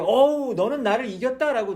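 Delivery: loud cry of "어우" then "이겼다" stressed; God conceding aloud. Retold or imitated. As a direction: call it out like a beaten wrestler giving in. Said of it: "하나님 뭐라 그래요?".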